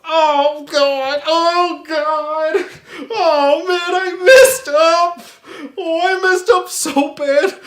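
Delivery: whimpering slow wail; crying. Acted. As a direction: whine like you're about to cry. Alien realizes failure, whimpers.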